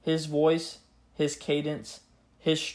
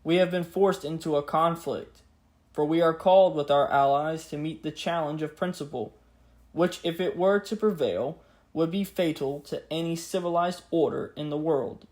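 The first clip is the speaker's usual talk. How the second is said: grave 1940s war broadcast. Acted. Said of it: "Let us now hear the words of the king, just as they were spoken".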